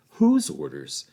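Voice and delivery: sharp, high demand; indignant question. A narrator's reading. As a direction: snap the question back. Sharp question, pitch jump.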